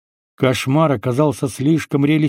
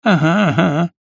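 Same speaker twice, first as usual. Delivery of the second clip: wry grimace; 4 semitones higher than usual. A narrator's reading. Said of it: "скривился Баклан".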